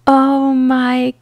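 high, loud shocked call. Acted. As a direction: say his name in disbelief. Voicing Alex seeing Callan.

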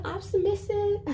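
high-pitched, submissive put-on Asian accent; mock Asian accent. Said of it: "how to do the, the Asian accent".

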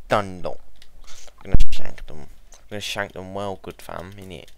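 rough London slang; mock roadman swagger; chav slang voice. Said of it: "I'm not gonna talk like a chav".

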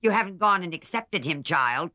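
put-on an old aunt shocked and crying out; loud, high scandalized old lady. A narrator's reading. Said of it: "cried Aunt March, looking scandalized".

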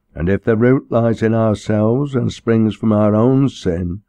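formal, sermonising clergyman; preaching minister. Acted. Minister urging the troubled girl to repent, preaching. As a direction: deliver it as solemn pulpit instruction.

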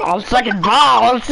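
slow hillbilly drawl. Pretend. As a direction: play it like a backwoods hillbilly. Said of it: "you sound like a hillbilly".

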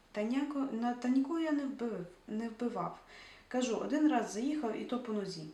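loud, flustered denial; a flustered, defensive excuse; defensive protest. Acted. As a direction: insist you barely hit him. Grisha defends himself.

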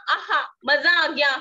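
a playful aha of pleasure; mock delight. Shown as a demonstration. Teacher showing kids the aha sound, mock delighted. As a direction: act out enjoying ice cream. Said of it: "जैसे हम ice cream खाते हैं".

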